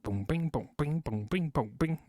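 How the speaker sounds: soft boom bing imitation; banjo plucking sounds. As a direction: hum a plucked banjo rhythm. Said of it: "plucked that chord note like a banjo".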